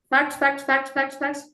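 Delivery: imitating a rapid-fire string of data; mock fact listing. Coach mocks trainee who throws only facts, mechanical listing. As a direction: rattle the word off mechanically, evenly. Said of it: "you threw only facts".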